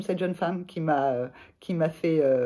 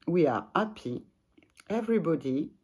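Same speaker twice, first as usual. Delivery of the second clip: French accent. Real, not acted. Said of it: "vous excuserez mon, mon accent".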